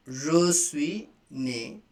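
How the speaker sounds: Je suis né drawn out slowly; slow repeat. Shown as a demonstration. Teacher slowing the phrase so students can repeat. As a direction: say it slowly for learners. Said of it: "like this".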